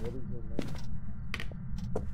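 slow, hushed question into the dark; quiet and slow. Real, not acted. Asking the ghost a question.

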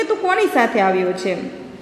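storyteller's low police uncle voice. Acted. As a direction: voice the policeman gently questioning a lost boy. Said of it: "એવું પૂછ્યું કે".

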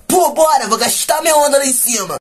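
high, loud silly voice; goofy dimwit friend. Retold or imitated. Silly friend agreeing to the hike, goofy high voice. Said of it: "o bobão retardado do grupo".

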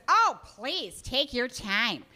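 mock breezy mom, stretching take your time slowly; airy, drawn-out reassurance. Mother answering the busy waiter, slow and breezy. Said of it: "She goes".

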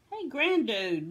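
high, loud mooing greeting; mooing cows. A narrator's reading. Friendly cows greet Grandude's song, mooing. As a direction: moo the words like a friendly cow. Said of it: "mooed some friendly cows".

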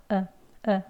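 으 said as a short, relaxed schwa; weak short schwa. Shown as a demonstration. Teacher models a weak vowel for learners, 으 short and relaxed. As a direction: let 으 out weakly and briefly. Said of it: "아주 약하게 힘 빼시고 짧게 합니다".

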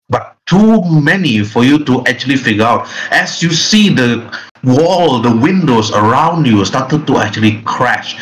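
slow, stretched-out suspense narration; dramatic scene setting. A narrator's reading. Game master reveals the creature before the player, dramatic narration. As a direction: draw out the last words for a reveal.

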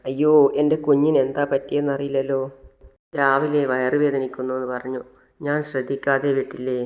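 acted wail of self-blame; tearful lament. Mother crying on the hospital floor, tearful lament. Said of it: "നിലത്തിരുന്ന് കരയാണ്".

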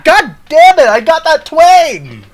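playful put-on Louisiana accent; southern Louisiana twang. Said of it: "That southern Louisiana voice accent".

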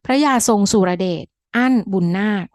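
short pause between พระยาทรงสุรเดช, อั้น and บุญนาค; pause for brackets. Shown as a demonstration. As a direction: set อั้น apart with a brief pause, brackets unspoken. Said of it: "แค่เว้นจังหวะนะ".

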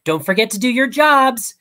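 high, loud teacher's call; a high, loud teacher calling to her pupils. A narrator's reading. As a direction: call out brightly to the class. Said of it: "Miss Hudson cries".

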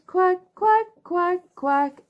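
duck quacking. Acted. Mummy Duck calls again.

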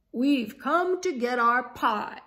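very loud marching chant; army demand. Acted. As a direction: announce like a conquering army.

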